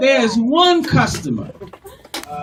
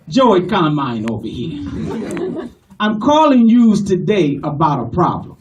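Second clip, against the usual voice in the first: passionate Italian-American caller; Italian-American customer with a grievance; Italian-American accent; 5 semitones lower than usual. Acted. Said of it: "they are very passionate".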